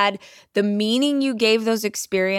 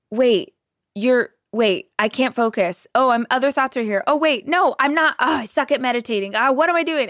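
acting out a friend's rising frustration, higher in places; mock panicky inner monologue, quickening; upset, flustered; 3 semitones higher than usual. Friend retelling her failed meditation to the group, flustered. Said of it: "got really upset".

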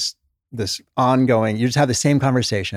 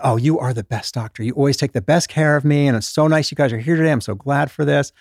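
a hint of a gushing, flattering patient; 3 semitones higher than usual. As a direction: lightly play the sweet-talking patient. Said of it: "they're usually extremely complimentary".

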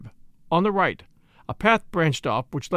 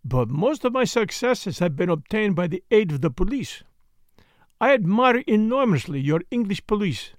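courteous detective, higher and carefully articulated; Poirot, gracious flatterer; 4 semitones higher than usual. Acted. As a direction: flatter politely in Poirot's accented voice. Plays Poirot in the story.

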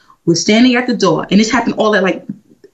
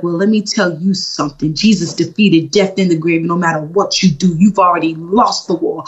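defiant rebuke; 4 semitones lower than usual. Retold or imitated. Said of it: "I was like".

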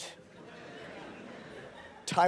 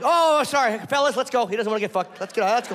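mock apologetic inmate; 3 semitones higher than usual. Mock polite attackers backing off.

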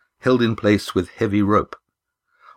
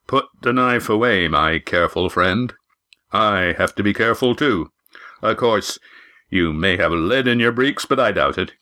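lightly voiced gruff innkeeper, unafraid; a hint of the tough tavern keeper calming a customer; wary innkeeper.

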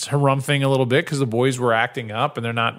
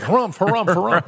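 mock harumphing; 6 semitones higher than usual. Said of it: "He's like".

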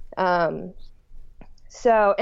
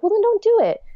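higher and louder, firm; blunt retort; 13 semitones higher, 7 dB louder than usual. Retold or imitated. Husband to his wife, blunt and loud. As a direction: say it like it's obvious.

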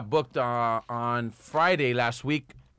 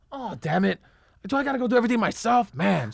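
mock exasperated complaint, higher and hurried in the middle; acting mad; 5 semitones higher than usual. Actor grumbling at his scene partner who can't find it, mock mad. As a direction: play a put-upon, fed-up partner. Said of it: "So I'm acting mad".

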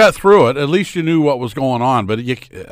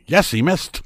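mock cheer, higher in pitch; pitched-up imitation of a delighted call; imitated gleeful commentator; 7 semitones higher, 3 dB louder than usual. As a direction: celebrate the miss like a partisan commentator. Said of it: "it was kinda like".

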